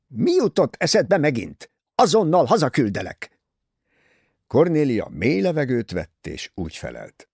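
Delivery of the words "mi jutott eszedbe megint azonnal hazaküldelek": loud, higher scolding; angry aunt barking a threat; snapping at her niece. Acted. Aunt snaps at Cornelia, loud and angry. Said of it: "ráförmett Kornéliára".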